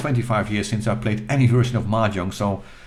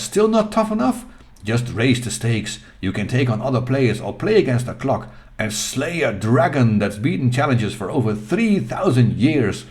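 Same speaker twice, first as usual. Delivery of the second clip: lightly hyped marketing challenge; a touch of epic sales pitch; dramatic ad read. Acted. Reads hyped box text aloud.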